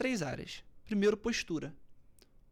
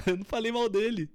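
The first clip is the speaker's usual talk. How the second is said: with a laugh, louder and light; laughing denial; 5 dB louder than usual. Shown as a demonstration. Coach saying the same words laughing. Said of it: "São as mesmas palavras".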